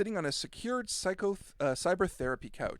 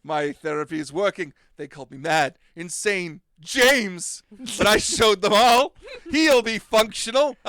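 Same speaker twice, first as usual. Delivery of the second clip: gloating mad scientist, building louder; 2 semitones higher, 8 dB louder, slower than usual. Acted. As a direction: rant like a triumphant madman. Therapist gloats after door closes.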